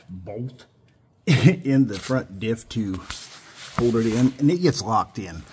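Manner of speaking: panting with effort, strained; straining under a truck. Real, not acted. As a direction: talk while straining under a car. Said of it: "excuse my grunting and panting".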